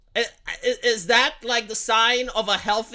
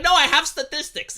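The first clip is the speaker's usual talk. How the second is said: smug mocking voice; 4 semitones higher, 4 dB louder than usual. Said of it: "And they're like".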